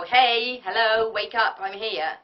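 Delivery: loud, bright wake-up call to the room; bright loud cheery. Shown as a demonstration. Coach waking a sleepy breakfast room, loud and cheery. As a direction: boom it out cheerfully to wake them up. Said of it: "in a nice, bright, loud, cheery voice".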